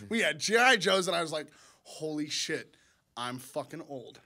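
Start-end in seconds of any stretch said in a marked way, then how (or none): 1.8-4.2 low, slow and hushed; quietly stunned, voice lowered; retold dismayed realization. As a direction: let it sink in, dropping softer. Retells a sobering realization.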